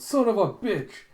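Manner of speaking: high, loud outburst; screamed curse. Retold or imitated. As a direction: yell the curse in alarm. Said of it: "the other hunters scream out".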